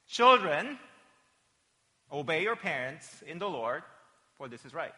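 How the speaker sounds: measured Bible reading, emphatic first word; verse recitation. Shown as a demonstration. Pastor introduces the verse to the congregation, measured recitation. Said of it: "a sentence goes like this".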